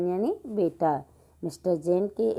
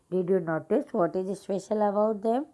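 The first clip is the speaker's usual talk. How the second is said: slow, careful classroom reading; slow read-aloud; much slower than usual. Acted. Teacher reading an English example sentence slowly to pupils.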